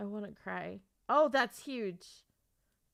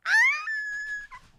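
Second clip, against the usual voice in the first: very high, loud squeal; overjoyed scream; 5 dB louder than usual. Real, not acted. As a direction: scream with overwhelmed joy. Overwhelmed by happy book news.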